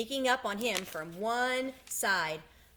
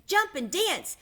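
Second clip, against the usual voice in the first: very high, loud rooster call; 10 semitones higher, 7 dB louder than usual. A narrator's reading. Rooster cheering Wilbur on, high loud call. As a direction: crow it out like a rooster. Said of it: "said the rooster".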